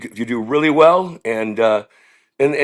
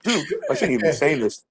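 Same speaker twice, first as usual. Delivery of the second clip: tag; 6 dB quieter than usual. Real, not acted. Cracking up at his own story.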